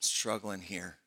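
soft, broken confession of struggle; crying out. Retold or imitated. Habakkuk confides his struggle to God, soft and weary. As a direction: let it sink low and quiet, worn out. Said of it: "He's crying out".

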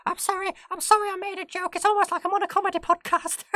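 very high squeaky ferret voice. Pretend. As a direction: squeak back like a ferret student. Ferret student role play.

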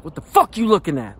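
lightly voiced menacing teen; bully's challenge. Bully confronting him in hallway, a mild mock snarl. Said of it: "the one guy's like".

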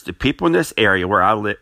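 hiccuping mid-sentence; words broken by a hiccup. Real, not acted. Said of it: "sorry about the hiccups".

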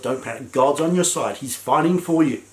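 calm the frightened people gently. Retold or imitated. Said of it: "We need to be the voice of".

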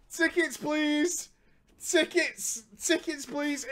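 ticket collector call. Pretend. Mock ticket collector calling out.

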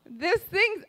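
a loud, sharp no; frustrated outburst. Retold or imitated. Wife snaps back at husband about the pillows, loudly. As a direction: push the no out hard, fed up. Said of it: "I said".

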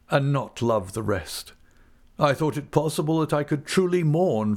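high, anguished, self-loathing lament; despairing father. Acted. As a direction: pour out a wretched confession. Narrator voices Wickfield's despairing confession.

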